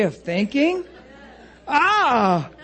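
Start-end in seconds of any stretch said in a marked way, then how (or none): 1.7-2.5 exaggerated retch-like cry of disgust. Preacher revolted by his own words, mock-disgusted cry. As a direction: spit out a bad taste. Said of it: "it sounds terrible in my mouth".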